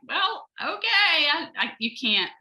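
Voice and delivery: surprised protest. Retold or imitated. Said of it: "And I'm like".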